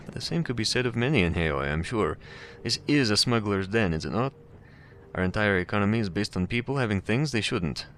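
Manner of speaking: put-on pleasant, cultured voice with slight Russian accent; amateur Russian accent, politely cautioning a visitor; hint of Russian accent. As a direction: lightly voice a courteous Russian. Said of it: "There's a hint of a Russian accent".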